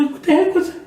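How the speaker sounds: jolted by the sting; shocked frog. Acted.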